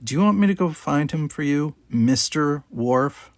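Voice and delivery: a sarcastic junior officer to her boss; pointed. Acted. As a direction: needle him with mock helpfulness. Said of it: "she said pointedly".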